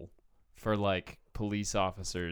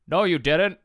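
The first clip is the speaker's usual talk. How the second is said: dumb cop voice; 7 semitones higher, 10 dB louder than usual. Retold or imitated. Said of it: "The other one goes".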